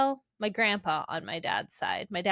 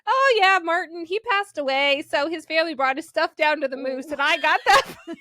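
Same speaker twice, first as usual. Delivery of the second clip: grandpa voice; 8 semitones higher, 6 dB louder than usual. Retold or imitated.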